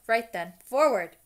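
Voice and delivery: big friendly giant calling first years. Acted. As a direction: call the crowd over. Hagrid launching the boats.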